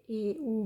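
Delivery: "اے او" sounded out as two vowels; umlaut pronunciation. Shown as a demonstration. Teacher showing learners the o-umlaut, sounding out "اے او". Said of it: "بولا جائے گا".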